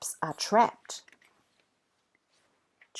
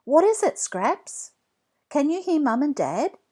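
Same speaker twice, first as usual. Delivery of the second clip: high, louder eager question; hopeful boy; 9 semitones higher, 6 dB louder than usual. A narrator's reading. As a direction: ask the dog with sudden hope. Jack hopeful, asks dog.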